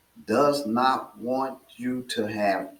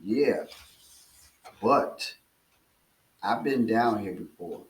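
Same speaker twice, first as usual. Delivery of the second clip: calm and polite. Retold or imitated. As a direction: settle him down gently, you know the way out. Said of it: "politely and calmly says to him".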